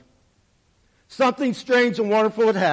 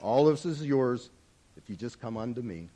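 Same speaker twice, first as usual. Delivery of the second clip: with a smile; 8 semitones lower, 8 dB quieter than usual. A narrator's reading. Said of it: "said with a smile".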